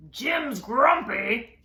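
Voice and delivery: drawn-out and loud; slow tattling. Acted. Norman telling Lemur about Jim, slow and loud. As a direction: tell on him slowly.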